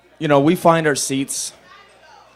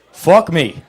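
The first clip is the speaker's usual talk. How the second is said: exasperated curse; 5 semitones higher, 5 dB louder than usual. Real, not acted. Punchline exasperation.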